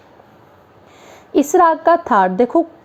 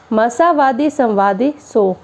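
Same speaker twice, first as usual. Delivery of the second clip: slow, measured verse recitation; doha recitation; slower than usual. Shown as a demonstration. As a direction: recite the couplet line slowly, like a teacher. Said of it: "सबसे पहले हम दोहा पढ़ेंगे".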